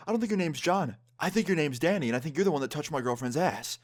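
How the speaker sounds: imitating angry boyfriend. Boyfriend accuses narrator's friend of lying, imitated anger. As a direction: accuse him as the retold angry guy. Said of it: "He looks so angry".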